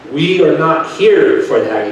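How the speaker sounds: slow, loud mock yell; retold yelling. Attorney refusing the father, imitated slow and loud. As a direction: lean hard on every word like the attorney. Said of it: "he tells me".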